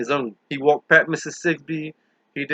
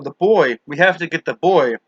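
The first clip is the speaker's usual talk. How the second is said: yelled; 4 dB louder than usual. Acted. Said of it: "the first woman yelled".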